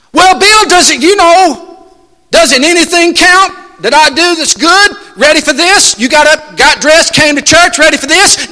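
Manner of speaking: high, whiny bragging voice; hammed-up boastful pew-sitter; boastful churchgoer. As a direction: play the self-satisfied church member fishing for credit.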